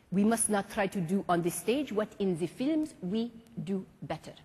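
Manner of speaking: put-on lightly French-accented teacher; a hint of a stately French maestro; French mime master. Marceau calls students up in class, lightly French.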